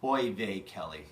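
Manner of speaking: loud Jewish-deli chef voice kicking in; Yiddish-inflected chef. Acted. The chef switching to his Eastern European persona, loud. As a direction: open the bit with a big oy vey. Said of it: "this version of the chef".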